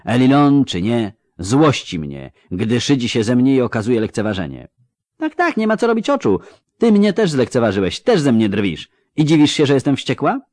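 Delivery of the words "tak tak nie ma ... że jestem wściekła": sharp, rising anger, fast; angry. Acted. Ciri accusing the elf, furious. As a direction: throw the accusation at him.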